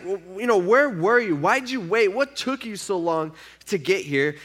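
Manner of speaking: retold distraught questions, easing at the end; devastated questioning. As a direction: plead for an explanation, lightly acted. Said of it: "they're devastated".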